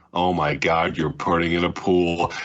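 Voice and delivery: acted, low, stunned, astonished incredulous tone. Speaker quotes a favourite movie line, imitating Bill's astonished pool line. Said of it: "It's just the way he says it".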